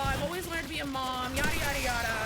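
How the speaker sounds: high, bubbly mock gushing over the baby; a lightly mocking impression of a thrilled expectant mother; gushing excited mom. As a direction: mimic a giddy mom-to-be, all sugar. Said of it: "most women are like".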